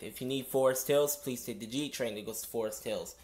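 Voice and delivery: conductor reading notices over PA; steady announcer drone through a speaker; subway announcement. Real, not acted. Conductor service change announcement.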